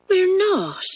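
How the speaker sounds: high, gentle protest; lightly reassure, pitch lifted; gently. Acted. Girl soothes her crying friend, gently. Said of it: "said Pat gently".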